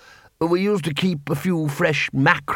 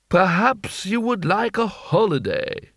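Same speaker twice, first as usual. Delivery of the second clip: hopeful; 7 semitones higher, slower than usual. A narrator's reading. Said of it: "a hint of hope in his voice".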